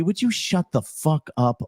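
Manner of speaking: being annoyed, stretch it out. Shown as a demonstration. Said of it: "being annoyed".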